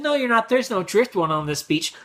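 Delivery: high, cocky imitated child; bratty kid. Kid tells dad there's no driftwood, high bratty voice. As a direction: sass dad like a little brat.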